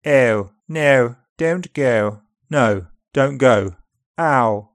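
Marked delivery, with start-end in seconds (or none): 0.7-2.2 upper RP accent. Shown as a demonstration. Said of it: "Upper R P starts to the front".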